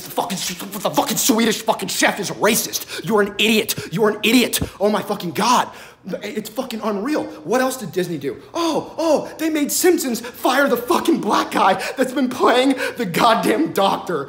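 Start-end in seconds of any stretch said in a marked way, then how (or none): 3.1-5.7 louder, exasperated insult; loud exasperated jab; angry rant. Real, not acted. Ranting at critics. 8.5-14.3 louder and higher outraged; loud indignant outburst; loud rant. Real, not acted. Ranting about Simpsons.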